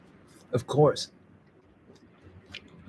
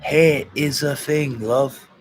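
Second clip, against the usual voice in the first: put-on Scottish accent; 2 semitones higher, 4 dB louder, much slower than usual. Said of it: "Hey, it's from Scotland".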